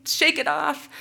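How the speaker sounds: high, loud retold scream of the lyric. To students hiking back up the mountain: loud high retold scream. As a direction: belt it out to keep them going. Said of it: "but I'm screaming".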